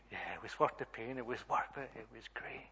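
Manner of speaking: small, understated answer; quiet admission. Retold or imitated. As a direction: imitate a child softly conceding. Daughter's subdued answer to father.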